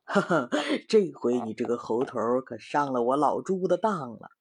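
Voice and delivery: smug chuckling pig voice; sly gloating pig. Acted. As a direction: gloat to yourself over the trick. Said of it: "心里说". (猪八戒得意地偷笑)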